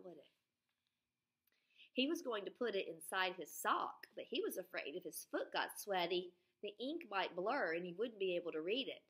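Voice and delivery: lively read-aloud story voice; storybook narration for young listeners; reading to children. Acted. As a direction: tell it to a class of kids. Reads Freckle Juice aloud to class.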